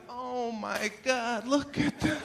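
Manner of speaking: thrilled welcome at the door; delighted surprise. Retold or imitated. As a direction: greet the guest with rising glee. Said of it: "you were like".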